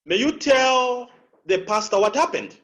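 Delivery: "tell" held long and high, pitch jumping up on "happened"; upward inflection. Shown as a demonstration. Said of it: "That's upward inflection".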